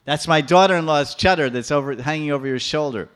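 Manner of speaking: loud, indignant accusation; old woman accusing Krishna, cross; angry accusation. Acted. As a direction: jab the word chadar. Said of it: "She's becoming so angry".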